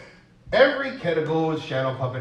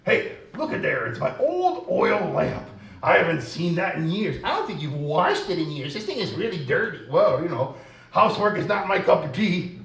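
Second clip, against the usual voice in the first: 1 puppet voice; 4 semitones higher, 4 dB louder than usual. Acted. Puppets find the lamp.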